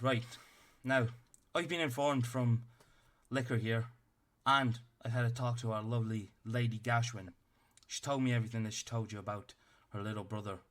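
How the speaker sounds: a tiny officer barking orders at the party; stern little captain. Acted. Captain addresses party again.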